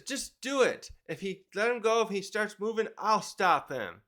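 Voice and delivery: a lightly acted, insistent call to action; mild urgent command. Luffy tells them to let him go, mildly urgent command.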